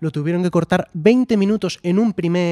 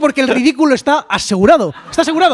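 laughing; 7 semitones higher, 5 dB louder than usual. Real, not acted. Laughing about live mistake.

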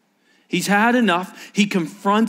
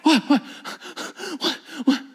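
mocking taunt; 10 semitones higher than usual. Elijah mocking Baal's prophets with a high taunt. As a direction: taunt them, egging them on. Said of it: "Elijah goes".

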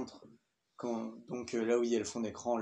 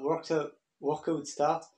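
put-on heavily French-accented English, a touch slower; bad English accent; 2 semitones higher, much slower than usual. Reviewer imitating the app's English voice for viewers, bad English accent. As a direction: mimic the app's English announcer in clumsy English. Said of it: "magnifique accent anglais, je sais".

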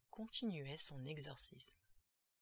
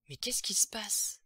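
loud, higher, alarmed outburst; panicked cry; 5 semitones higher, 8 dB louder than usual. A narrator's reading. Father demands to know what is happening, panicked. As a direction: cry out in utter bewilderment. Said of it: "s'écria alors Jerry, complètement affolé".

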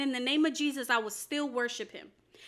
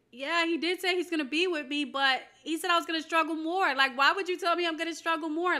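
higher-pitched, mildly aggrieved retort; retold protest; 5 semitones higher than usual. Wife objects to husband's comfort, retold higher-pitched protest. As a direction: act out pushing back on reassurance.

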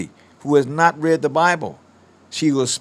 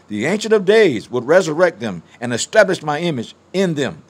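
loud, declaiming prophecy to the congregation; prophetic preaching; 3 dB louder than usual. Acted. Preacher proclaiming prophecy to the church, booming. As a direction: thunder out the word of the Lord.

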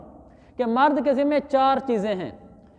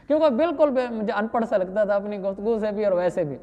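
laughing aside. Real, not acted. Laughing at the villager.

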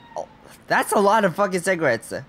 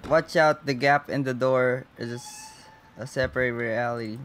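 lightly voiced, softer creepy repeat; eerie echo; 4 semitones lower, 5 dB quieter than usual. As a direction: echo the spooky voice under your breath. Repeats the game's eerie line.

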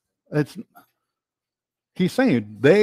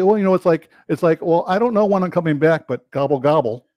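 mocking teacher; 3 semitones lower than usual. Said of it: "I've seen one teacher say".

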